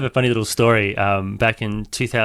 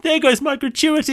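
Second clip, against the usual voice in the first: put-on posh British accent. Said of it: "he had this very posh British accent".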